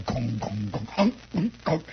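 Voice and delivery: comic bongs and grunts; mock gong sounds; imitated gong noises. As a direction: mimic a hollow stomach sounding, starting low. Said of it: "And it would go".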